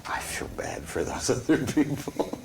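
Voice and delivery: soft whisper; player's guilty aside at the table, whispered. Real, not acted. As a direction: say it under your breath. Player aside about victims.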